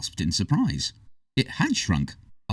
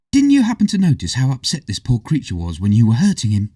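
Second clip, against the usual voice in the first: barking scold; 4 semitones higher, 5 dB louder than usual. A narrator's reading. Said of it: "barked at him".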